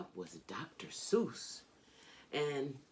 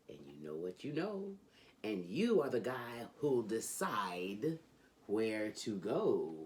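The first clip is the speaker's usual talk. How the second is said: lively, sing-song storybook reading; reading to children. A narrator's reading. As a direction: read it like a bedtime book for kids. Reads Dr. Seuss to children.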